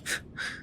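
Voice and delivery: short amused breathy laugh; a little huff of a laugh. A narrator's reading. Mike huffs, amused at Oliver's threat. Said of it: "Mike huffs, amused".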